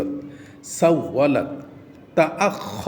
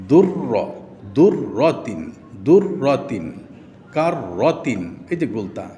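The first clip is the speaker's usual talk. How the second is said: recitation drill; much slower than usual. Shown as a demonstration.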